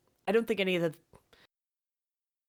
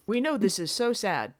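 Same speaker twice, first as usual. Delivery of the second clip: mock-sympathetic corporate formality, slightly raised pitch; company layoff notice; 4 semitones higher than usual. Company telling you that you got laid off, formal mock sympathy. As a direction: deliver hollow official condolences. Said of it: "it sounded like a company".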